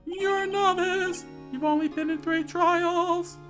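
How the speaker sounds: high, melodramatic scorn; scornful put-down. Acted. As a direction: belittle him in a high, strained voice. Rival belittles the lawyer.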